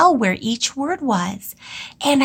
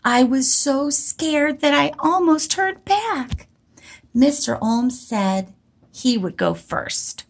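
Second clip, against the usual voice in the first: saying it to myself; 3 semitones higher than usual. Shown as a demonstration. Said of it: "I'm going to say".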